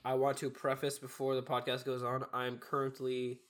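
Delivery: stuffy nose from a cold; blocked nose. Real, not acted. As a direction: talk through a blocked nose. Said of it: "I sound really bad".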